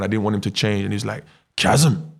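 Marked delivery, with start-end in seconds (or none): 1.6-2.1 imitating the coach. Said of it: "That's how he talks".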